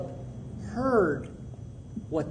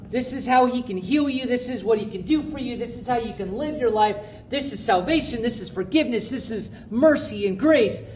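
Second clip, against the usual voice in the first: louder, quicker pitch of an eager evangelist; pushy preacher; 2 semitones higher, 3 dB louder than usual. Retold or imitated. Pastor mocks Christians who lecture strangers, pushy and loud. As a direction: rattle off the sales pitch at them. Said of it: "and say".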